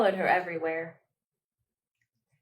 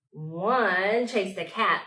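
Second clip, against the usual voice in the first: gasped surprise; slower than usual. Acted. Gasp before dramatic line.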